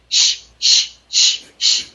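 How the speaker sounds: rapid rhythmic shh pulses; sprinkler-like shushing. Shown as a demonstration. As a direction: pump short shh bursts like a sprinkler. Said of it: "like a sprinkler system".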